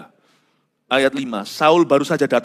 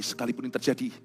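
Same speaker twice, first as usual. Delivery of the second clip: declaring faith; 3 semitones higher than usual. Pretend. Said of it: "kalau kita menangisnya begini".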